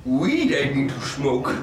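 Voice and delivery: slow, lightly done Yoda; inverted words, a touch of Yoda; a mild Yoda impression, slow. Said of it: "Best Yoda impression".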